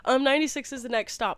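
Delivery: quick, polite retold answer; what she actually said, brisk and polite; polite quick reply. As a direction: rush it out politely. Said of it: "but I was like".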